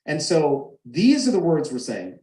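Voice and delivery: ordinary talk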